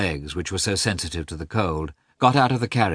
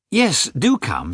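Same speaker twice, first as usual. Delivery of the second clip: warm invitation; 7 semitones higher, slower than usual. Acted. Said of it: "said Dolly".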